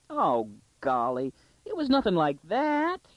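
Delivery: slow start leaping into a high squeal; dismayed protest. Acted. Daughter denying the accusation to her father, in squeaky dismay. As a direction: wail it like a mortified young girl.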